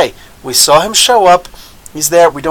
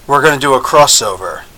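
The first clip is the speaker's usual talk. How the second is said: mock TV mumbling, dropping to a whisper; lowered voice; 6 semitones lower, 4 dB quieter than usual. Shown as a demonstration. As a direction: fade down into a near-inaudible whisper. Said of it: "you lower your voice".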